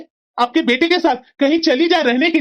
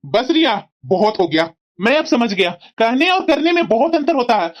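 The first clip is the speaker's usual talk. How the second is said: firm, controlled anger; angry ultimatum. Acted. Husband giving wife until morning to decide, angry but controlled. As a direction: lay down an ultimatum without shouting. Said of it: "इतना गुस्सा होकर के चले गए".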